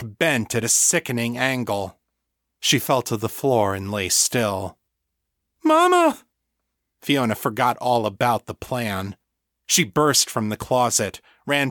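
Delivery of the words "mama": high, loud scream of horror; anguished scream. A narrator's reading. Fiona seeing her mother killed, anguished high scream.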